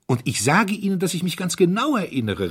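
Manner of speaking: high, loud, insistent outburst; excited. A narrator's reading. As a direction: insist heatedly. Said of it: "rief der Herzog aufgeregt". (aufgeregt gerufen)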